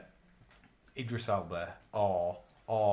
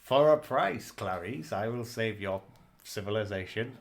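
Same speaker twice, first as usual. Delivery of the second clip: Hannibal Lecter impression; 4 dB louder than usual. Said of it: "a bit like, um, Silence of the Lambs".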